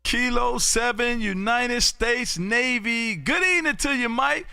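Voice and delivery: bright on-air welcome, voice lifted high; excited greeting. Real, not acted. Host greets a Navy ham friend on air, excited.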